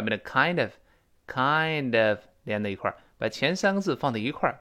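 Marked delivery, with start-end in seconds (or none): 0.3-2.2 "kind of" run together as kain-dəv; "kind of" as one joined word, kain-dəv; linked reading. Shown as a demonstration. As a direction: link the d of "kind" straight into "of". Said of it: "跟后面的of连在一块儿".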